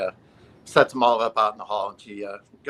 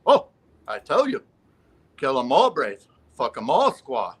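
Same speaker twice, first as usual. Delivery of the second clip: joke Native character; 3 semitones higher, 5 dB louder than usual. Acted. Last man answers the insurance lady, lightly hammed-up proclamation. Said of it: "the last Indian comes in".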